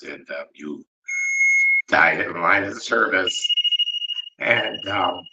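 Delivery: holding back tears while honouring a hero; choked up. Real, not acted. Investigator honouring fallen Sheriff Reed, choked up. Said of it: "sorry, I get emotional sometimes".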